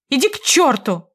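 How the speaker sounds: брошено через плечо; tossed over shoulder. A narrator's reading. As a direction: fling it back without turning. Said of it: "кинула я через плечо".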